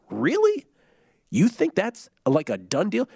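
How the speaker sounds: jumps way up in disbelief, really?; incredulous. Real, not acted. Co-host scoffing at the Bengals returning, incredulous high pitch. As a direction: scoff at the idea, high and sharp.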